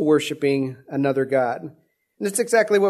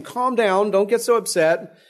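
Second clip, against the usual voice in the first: a hint of pleading to settle him down; imitated placating. Aaron telling Moses to calm down, lightly placating. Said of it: "You can just see him".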